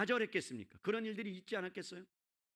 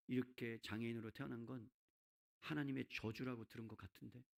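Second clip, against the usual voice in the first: ordinary talk, nothing marked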